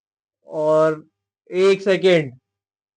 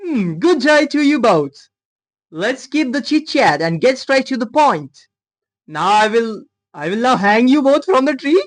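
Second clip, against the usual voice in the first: higher, slow, hammed-up posh American accent; mock posh American accent; 6 semitones higher, 3 dB louder, much slower than usual. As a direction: play a stiff posh American gentleman. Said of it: "कैसे तू posh American accent?". (धीमा, ऊँचा, नकली posh अमेरिकी लहजा)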